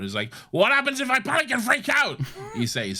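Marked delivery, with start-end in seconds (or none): 0.5-2.2 higher, louder mock panicked cry; mock scream. Retelling a boy's panic to the doctor, a higher mock cry. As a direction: squeal it like a panicking kid.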